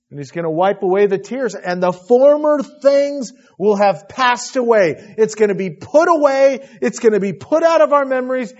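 loud, soaring joyful sermon; rousing preaching. Real, not acted. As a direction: lift the room with the promise. Preacher rejoices over heaven.

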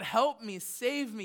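pleading. Retold or imitated. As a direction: beg God to save you, voice lifted. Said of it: "You're pleading with him".

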